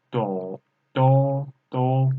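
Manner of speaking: "do" in a level first tone. Shown as a demonstration. Teacher repeating for learners, "do" in first tone. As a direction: repeat "do" until it sits steady and level. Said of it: "first tone".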